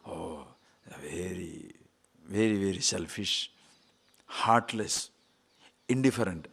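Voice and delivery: quiet, soft mock reproach; lightly voiced scolding critics; mock accusation. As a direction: mimic critics calling him selfish. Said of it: "what will they say?".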